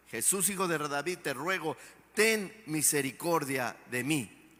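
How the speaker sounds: súplica más suave y tranquila, con fe; "te ruego" dicho con calma y confianza; ruego sereno. Retold or imitated. (Bartimeo rogando a Jesús con fe, en tono bajo)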